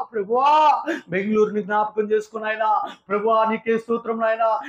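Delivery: plaintive prayer calling on the Lord; preacher demonstrating intercession, rising to a cry; pleading prayer. Shown as a demonstration. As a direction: beg God for the thirsty city. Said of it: "acts out his prayer".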